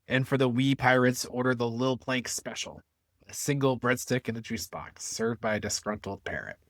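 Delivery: lightly voiced pirate ad read; a hint of a hammy pirate pitchman. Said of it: "I hope you all enjoyed my pirate voice".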